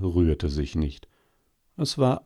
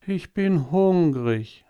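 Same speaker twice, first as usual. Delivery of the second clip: hoch, langsam und seufzend; seufzendes Faultier; 8 semitones higher, slower than usual. A narrator's reading. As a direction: jammer es träge vor dich hin. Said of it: "sagte es und seufzte". (langsam, jammernd und hoch)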